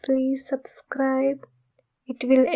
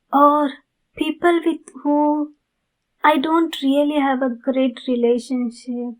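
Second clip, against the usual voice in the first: gentle, courteous vampire asking a favour; sweet, apologetic creature of the night asking nicely; polite vampire neighbor; 4 dB louder than usual. Acted. Vampire neighbor asks listener for blood, gentle and polite.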